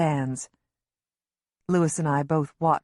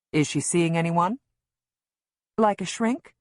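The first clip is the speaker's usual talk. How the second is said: touch of anger; 2 semitones higher than usual. A narrator's reading. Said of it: "anger in my voice".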